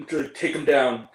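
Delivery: imitated order with some force; first mock attempt. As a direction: give the order firmly, in mockery. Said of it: "Or more like".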